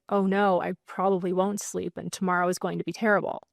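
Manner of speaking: quick, worried spiral; a touch of rushed dread; lightly voiced anxious spiral; mildly panicky reply. Shown as a demonstration. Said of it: "you respond with".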